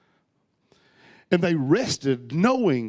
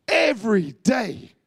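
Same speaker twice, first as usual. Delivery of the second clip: emphatic shout; 3 semitones higher, slower than usual. Real, not acted. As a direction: proclaim it to the whole room. Preacher repeats prayer promise.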